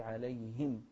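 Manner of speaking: عليهم ending in a distinct -him; clear kasra. Shown as a demonstration. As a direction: sound the short i in عليهم. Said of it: "ونوضح الكسرة". (عليهم بكسرة واضحة على الهاء)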